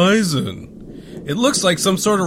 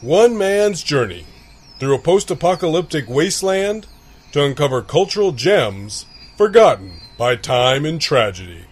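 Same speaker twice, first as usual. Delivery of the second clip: announcer. Acted. Dramatic show intro.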